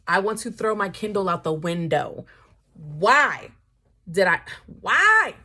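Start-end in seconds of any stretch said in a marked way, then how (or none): 2.7-5.3 anguished cry. Real, not acted. Despair over waiting for sequel.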